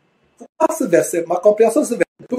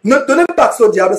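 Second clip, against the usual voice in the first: normal talking voice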